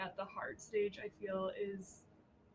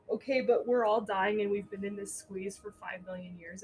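louder, put-upon protest; restless complaint; 7 dB louder than usual. Acted. Speaking for everyone stuck in the squeeze, restless. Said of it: "the collective energy is very restless".

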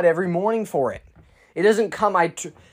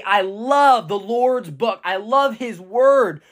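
slow, raised, loving declaration; slow and heartfelt, higher; with love and excitement; 4 semitones higher, slower than usual. Shown as a demonstration. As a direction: declare your love for the word. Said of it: "say it with just an expression, a love and excitement".

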